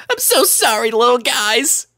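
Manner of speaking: high, loud tearful sorry; tearful tomboy pony apologizing; choked-up high apology; sniffling apology. A narrator's reading. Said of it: "she sniffed".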